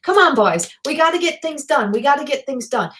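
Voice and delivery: put-on light Newfoundland accent, chivvying the crew; playful touch of a Newfoundlander's accent; Newfie accent. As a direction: urge them on with a hint of Newfie. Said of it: "I just pulled that Newfie accent out".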